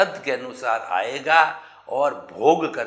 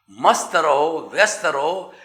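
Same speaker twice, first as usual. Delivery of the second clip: upbeat slogan; 4 semitones higher, 5 dB louder than usual. Acted. Emphatic slogan in sermon.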